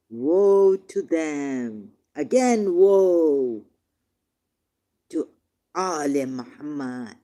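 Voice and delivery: real emotion breaking through, drawn out and loud; getting emotional. Real, not acted. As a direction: let the feeling swell and burst out. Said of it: "I'm getting emotional".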